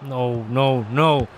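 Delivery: rising to a loud no; frustrated no. Real, not acted. Gamer conceding a goal, building to a loud no.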